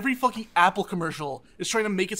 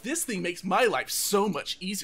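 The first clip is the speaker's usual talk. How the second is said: influencer voice. Retold or imitated. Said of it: "why the fuck are you putting that voice on".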